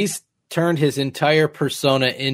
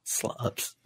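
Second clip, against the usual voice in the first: whispered; 15 dB quieter than usual. Real, not acted. Echoing the insult under breath.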